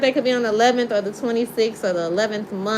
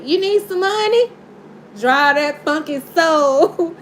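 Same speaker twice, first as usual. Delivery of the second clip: laughing quote; 3 semitones higher, 3 dB louder than usual. Retold or imitated. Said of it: "Spirit say".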